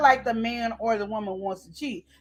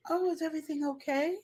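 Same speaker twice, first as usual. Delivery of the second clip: soft, sly, sugary concern, softer; sly other woman; 2 semitones higher, 3 dB quieter than usual. Acted. Coworker slithering up to the frustrated man, softly sly. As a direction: coo like the sweet-talking coworker moving in. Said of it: "she slithered on in there".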